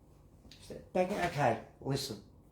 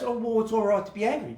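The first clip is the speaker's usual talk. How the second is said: quick offhand voicing of someone upset; upset person, voiced lightly and fast; fast, light quote of an angry person; 3 semitones higher, faster than usual. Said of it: "it just goes".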